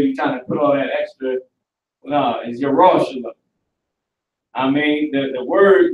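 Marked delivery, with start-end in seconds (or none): 2.6-3.3 "Yerushalayim" as yah-RAW-sha-lum, no throaty sounds; no Arab accent. Shown as a demonstration. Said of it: "Arab accent on it".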